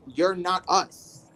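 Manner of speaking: slow, cold brush-off; slowly mocking the gay men's rejection; dismissive gay men. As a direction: drag it out to shut them out. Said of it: "gay man would be like".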